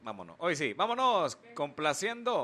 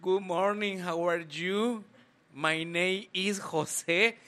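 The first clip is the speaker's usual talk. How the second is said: slow, stiff textbook English; a slow textbook English recital; 5 semitones higher, 5 dB louder, much slower than usual. Retold or imitated. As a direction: recite it like a schoolbook English lesson. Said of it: "el inglés del libro".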